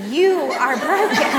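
laughing through the words; laughing retelling of God's words. Real, not acted.

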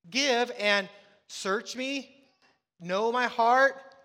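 slow preacher's plea voicing David's prayer; slow pleading prayer. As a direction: stretch every word like a cry to God. David crying out to God.

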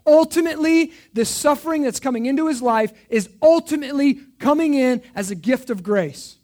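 loud, high, driving preacher climax; preaching at full force. Real, not acted. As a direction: push it out to the whole room.

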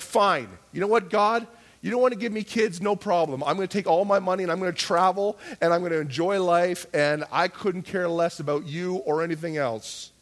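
defiant, fed-up retort; angry defiance. Retold or imitated. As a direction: throw it back at God, mildly heated. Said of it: "I would get so angry with God".

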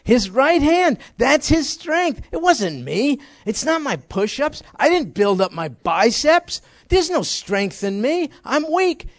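fervent high preaching as David. Acted. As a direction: cry out that the strength is not yours.

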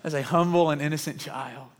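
slow, syrupy, mocking the greeting-card version; lightly mocking sweet nativity tone; mock sentimental. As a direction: gush over the baby like a Christmas card. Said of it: "we stop at the sentimental story".

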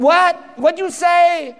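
high, shouted "What?", then a slow baffled "What'd you say?"; mock mishearing. Disciples mishearing Jesus's command, in a high, baffled shout. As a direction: play it like someone hard of hearing.

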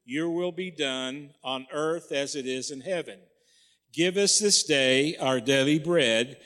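congregation recitation in unison; reciting by rote. Acted. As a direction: recite it together, steady cadence. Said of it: "say it with me".

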